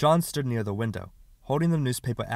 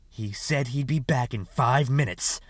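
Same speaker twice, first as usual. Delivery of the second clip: slow, mocking echo of the boy's words; sneering slow parroting; scornful mimicry; 2 semitones higher than usual. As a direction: throw his excuse back at him with scorn. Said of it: "said Sister McCandless with scorn".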